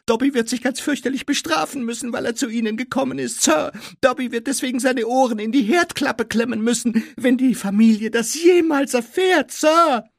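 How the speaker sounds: frantic high squeaky elf; Dobby. A narrator's reading. Elf dreading punishment, frantic loud squeak. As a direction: squeal it loudly, racing through the middle.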